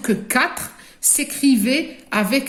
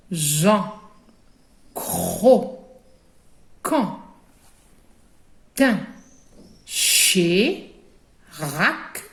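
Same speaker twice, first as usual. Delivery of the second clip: Que, Ke, Ka, Ko: each syllable said alone, crisp, with long pauses; teacher reading syllables one by one for the class to echo; syllables modelled clearly for children to repeat; 4 semitones lower, much slower than usual. Shown as a demonstration. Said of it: "vous répétez derrière moi".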